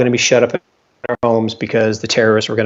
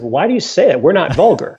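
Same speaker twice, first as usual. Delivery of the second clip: higher, lightly voiced Frenchman with a laugh; mock Frenchman; 5 semitones higher than usual. Frenchman scolding him over the phrase, mock indignant and higher. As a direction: play the offended Frenchman, half laughing.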